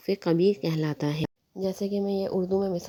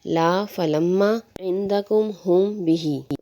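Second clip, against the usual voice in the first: recitation; much slower than usual. Shown as a demonstration. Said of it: "اس طرح علی ہے".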